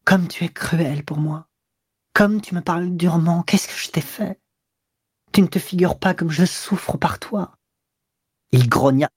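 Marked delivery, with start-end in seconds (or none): 0.0-7.5 timid pleading. A narrator's reading. Mistress pleading timidly with her cold lover. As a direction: beg him meekly like a beaten dog. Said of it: "avec un air craintif et soumis".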